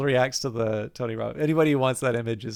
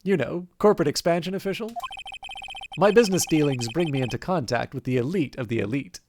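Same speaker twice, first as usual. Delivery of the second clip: pompous CEO voice. Acted. Red White introduces himself.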